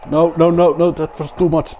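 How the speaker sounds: high, loud string of protests; alarmed outcry. Real, not acted. Rally driver reacting to overdoing it, alarmed outcry. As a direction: cry out as the car gets away from you. Panics at a driving mistake.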